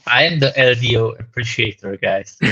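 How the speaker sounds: loud, proud announcement; excited. Real, not acted. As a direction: boldly claim the title. Claims the Lido appreciator title.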